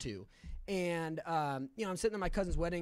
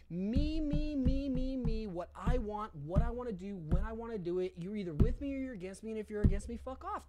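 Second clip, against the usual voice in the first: raised, insistent mock rant; self-centered demanding; 5 semitones higher, 4 dB louder than usual. Recovering drinker showing how he treated his wife, mock selfish demands. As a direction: hammer out each demand, mimicking your selfish old self. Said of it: "is basically how I acted".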